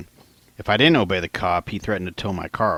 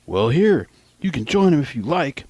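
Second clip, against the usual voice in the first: mock yell; 6 semitones higher, 3 dB louder than usual. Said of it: "the cop yelled".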